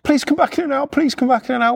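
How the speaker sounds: imitated high-pitched pleading; shaking, panicking. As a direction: plead high and stammering, repeating yourself. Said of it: "starts, like, shaking".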